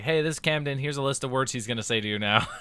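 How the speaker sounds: mock announcer. Teasing friend over odd words, mock announcer. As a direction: announce a pretend word list. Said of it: "it's just gonna be like".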